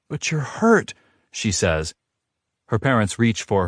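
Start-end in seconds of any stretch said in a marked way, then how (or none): 0.1-0.9 put-on protesting girl. A narrator's reading.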